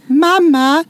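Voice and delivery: high, loud, drawn-out announcement from afar; daughter calling out. Retold or imitated. Daughter warns jumpy mother before entering, calling out. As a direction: imitate a child's slow warning call. Daughter now calls out warning.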